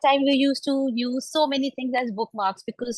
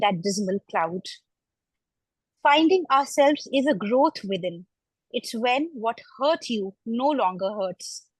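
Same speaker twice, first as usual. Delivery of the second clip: reading her own poem aloud at the session; poem recitation. Acted.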